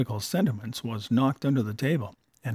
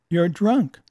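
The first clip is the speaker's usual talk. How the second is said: louder, higher, blunt accusation; accusing; 5 semitones higher, 5 dB louder than usual. Acted. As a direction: lay it on him plainly. Wife scolds drunk husband.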